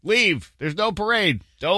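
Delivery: put-on lightly done Irish accent; hint of a rock singer's Irish lilt. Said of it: "Imagine your best Bono voice".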